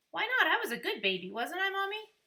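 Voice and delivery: put-on high, loud child pleading; a four-year-old appealing to Mommy; whiny toddler. A narrator's reading. Toddler protests to mother.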